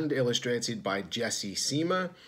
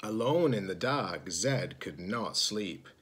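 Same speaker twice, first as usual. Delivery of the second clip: hushed narration. A narrator's reading. Slow hushed story moment.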